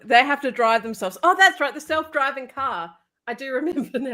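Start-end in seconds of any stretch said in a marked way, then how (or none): 1.2-2.9 sudden realization. Real, not acted. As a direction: jump up in pitch as it clicks. Sudden remembering.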